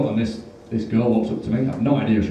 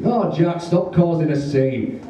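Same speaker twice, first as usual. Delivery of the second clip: higher, drawn-out complaint; scolding date; 6 semitones higher, slower than usual. Retold or imitated. Embarrassed date tells Jack off in cinema, scolding. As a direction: imitate an exasperated date.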